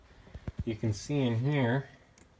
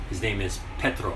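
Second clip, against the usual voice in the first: Ukrainian accent. Shown as a demonstration. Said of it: "That's my best Ukrainian accent I can give".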